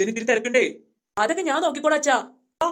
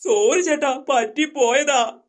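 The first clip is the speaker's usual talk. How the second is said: blurted apology, last word stretched out; pleading apology; 4 dB louder, slower than usual. Acted. Boys apologise to the brother they insulted, pleading. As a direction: beg forgiveness, dragging out the final word.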